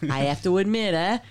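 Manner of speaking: hammed-up Missouri accent; missouri twang. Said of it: "You gotta use a Missouri accent".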